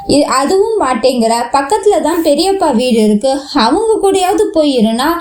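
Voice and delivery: fretful, pleading grief held back; wailing lament. Acted. Vasanth laments over his sick mother, mildly tearful. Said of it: "Vasanth கூறிய கதறல்கள்".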